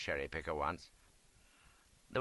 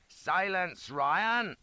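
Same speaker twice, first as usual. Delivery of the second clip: stern officer; 9 semitones higher, 5 dB louder, much slower than usual. A narrator's reading. Officer commands.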